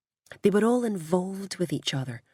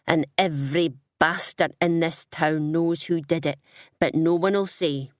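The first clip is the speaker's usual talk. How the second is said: louder, bitter snarl at Ian; 4 dB louder than usual. Acted. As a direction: spit it at him like an accusation. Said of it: "snarling at Ian".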